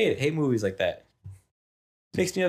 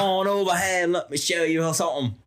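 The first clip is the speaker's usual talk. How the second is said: playful pirate impression. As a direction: call out like a matey pirate. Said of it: "That's my pirate".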